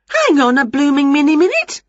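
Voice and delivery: high, loud indignant call; indignant protest. A narrator's reading. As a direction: call out to stop someone leaving. Winnie objects to builder leaving.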